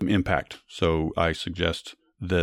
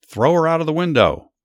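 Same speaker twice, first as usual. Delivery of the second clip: high, loud yelled command; 9 semitones higher, 5 dB louder than usual. A narrator's reading. Jehu orders the queen's men to throw her out, high narrated yell. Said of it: "Jehu yelled".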